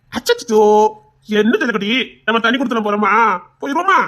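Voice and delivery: put-on dote on the baby in baby talk; baby cooing. Cooing over the baby again.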